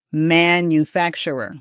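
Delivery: "Manufacturer" as man-yoo-FAK-chur-er; teacher's demo of "Manufacturer", middle syllable stressed; model pronunciation of manufacturer. Shown as a demonstration. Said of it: "something like that".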